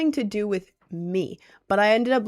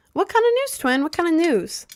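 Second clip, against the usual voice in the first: excited squeal; 8 semitones higher, 4 dB louder than usual. Acted. Excited reply to good news.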